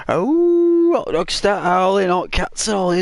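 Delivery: high, hammed-up cry of alarm; mock alarm. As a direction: squeal it like panicked pets. Animals react in silly retelling.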